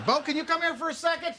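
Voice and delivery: put-on high-pitched call to a child in another room. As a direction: call the kid over. Father calls son over.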